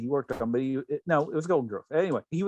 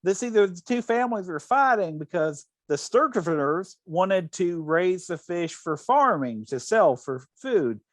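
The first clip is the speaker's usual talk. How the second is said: imitating Rose; 3 semitones higher than usual. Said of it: "And she goes".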